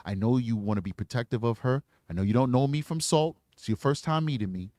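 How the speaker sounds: calm the dad, speak gently; reassuring detective to a protective father; sympathetic. Shown as a demonstration.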